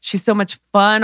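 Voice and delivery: acted starry-eyed enthusiasm; gushing. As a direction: gush about a brand-new best friend. Acts gushing over a new friend.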